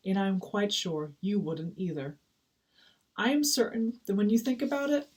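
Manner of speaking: a touch of stately storybook orator; gently hammed-up wise elder walrus; lightly voiced walrus, lofty and kindly. Walrus counsels a troubled penguin, mildly grand and earnest.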